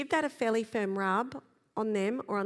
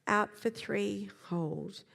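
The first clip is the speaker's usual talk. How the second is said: breathing count; much slower than usual. Shown as a demonstration. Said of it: "you take over the counting".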